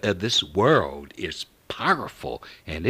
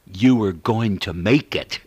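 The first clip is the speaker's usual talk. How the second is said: firm, raised-volume encouragement; emphatic exclamation; 4 dB louder than usual. Retold or imitated. Preacher voicing Jesus's reassurance to the listener, emphatic exclamation. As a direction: push it out like an exclamation. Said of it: "exclamation point".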